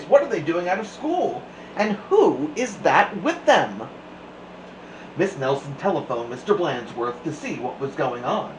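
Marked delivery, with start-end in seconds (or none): 0.0-3.9 lightly raised scratchy voice; a touch of scratchiness. A narrator's reading. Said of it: "she said in a scratchy voice".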